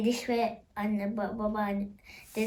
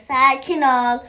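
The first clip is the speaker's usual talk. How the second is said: loud firm "Sakin ol" as a command; loud "Sakin ol" to the startled game character; firm calming; 10 dB louder, slower than usual. Acted. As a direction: snap "Sakin ol" loudly to settle her down. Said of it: "bir şey yok abla".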